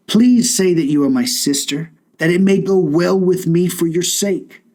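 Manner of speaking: measured, formal Bible reading voice; scripture reading. Acted. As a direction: read it like a solemn passage from Genesis. Reads the Genesis passage aloud.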